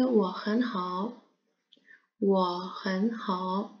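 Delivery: whispered, very slow model. Shown as a demonstration. Teacher whispers Lina's reply slowly. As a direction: breathe the words out slowly. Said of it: "و لینا میگه".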